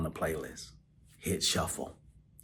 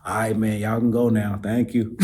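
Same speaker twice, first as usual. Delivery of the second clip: shooing them off; 3 semitones higher, 9 dB louder than usual. Retold or imitated. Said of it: "shooing staff away, emotional".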